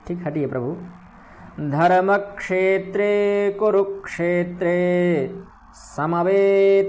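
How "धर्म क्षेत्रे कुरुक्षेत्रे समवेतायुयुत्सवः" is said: measured chant of the first half line; slow verse recitation. Shown as a demonstration. Teacher chanting the Gita verse for students. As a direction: recite the verse slowly and evenly. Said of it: "छा और क्ष में अंतर रखेंगे".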